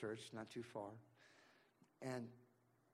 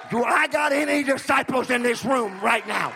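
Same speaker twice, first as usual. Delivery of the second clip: the same question louder and higher, hitting I; louder repeat; 9 semitones higher, 22 dB louder than usual. Shown as a demonstration. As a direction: repeat it harder to stir the room. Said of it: "Let me ask you something".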